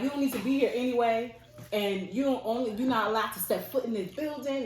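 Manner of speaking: mad vice principal. Retold or imitated. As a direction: retell an angry administrator laying down the law. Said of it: "he got so mad".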